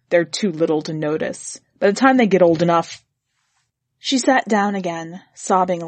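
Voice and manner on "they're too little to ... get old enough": brutal. Acted. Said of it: "he said brutally".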